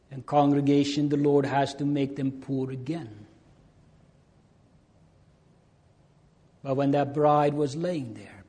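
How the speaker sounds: loud, forceful preaching to the congregation; fervent preaching. Real, not acted.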